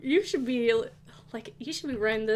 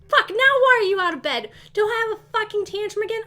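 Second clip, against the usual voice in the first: louder, higher fed-up yell; exasperated outburst at the screen; frustrated shout; 6 semitones higher, 9 dB louder than usual. Real, not acted. Sim child out of bed again.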